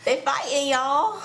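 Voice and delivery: high, hammed-up cry; high-pitched wail. Host reacting to the episode's fight, high mock wail.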